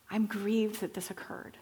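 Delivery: soft, near-whispered grieving God; quietly grieved; hushed regret. Acted. Voicing God grieving after the flood.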